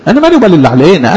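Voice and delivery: laughing. Real, not acted. Preacher laughs at the enemies.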